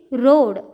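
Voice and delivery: "road" with a long O; long vowel. Shown as a demonstration. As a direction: draw out the O in "road". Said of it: "we will see now long vowel sound". ("road" में लंबा ओ)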